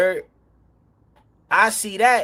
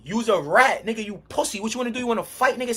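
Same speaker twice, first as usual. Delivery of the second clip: higher, heated retold insult; heated callout; 4 semitones higher than usual. In front of the crowd calling Cobb Butter a rat, heated. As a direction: call him out in front of everybody.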